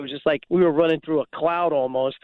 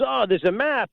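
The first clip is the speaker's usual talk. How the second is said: mimicking Drew; 6 semitones higher than usual. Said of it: "And he goes".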